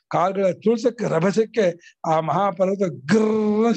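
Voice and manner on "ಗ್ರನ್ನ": rolled growling noise word; imitated mountain rumble. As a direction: imitate a mountain grinding underfoot. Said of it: "ಶಬ್ದ ಮಾಡ್ತಾ ಇದೆ". (ಪರ್ವತದ ಗುಡುಗುವ ಶಬ್ದದ ಅನುಕರಣೆ)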